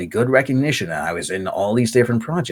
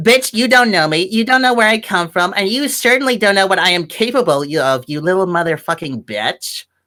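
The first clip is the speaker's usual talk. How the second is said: put-on high, laid-on Californian Valley Girl accent; 9 semitones higher than usual. Showing the voices they will do in a call, Valley Girl accent. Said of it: "Californian Valley Girls".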